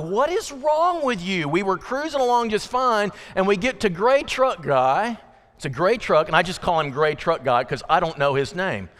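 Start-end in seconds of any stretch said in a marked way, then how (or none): 0.0-5.2 frustrated driver. Retold or imitated. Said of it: "And I'm like".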